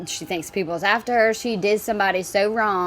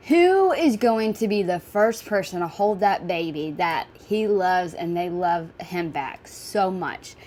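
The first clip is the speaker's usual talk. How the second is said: getting emotional; slower than usual. Real, not acted. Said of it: "I'm gonna get emotional".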